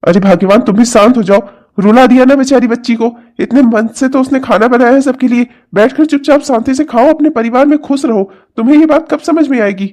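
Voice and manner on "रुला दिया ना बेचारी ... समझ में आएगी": high, exasperated appeal; reproachful scolding. Acted. Father-in-law blaming wife for the girl's tears, reproachful scolding. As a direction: reproach her, pitch climbing in exasperation.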